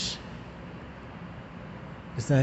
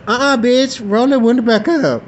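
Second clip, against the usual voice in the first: high, loud uh-uh; shouted protest; 10 semitones higher, 5 dB louder than usual. Retold or imitated. Andre shouting at her to close the window. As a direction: yell it over the cold wind. Andre complaining about cold.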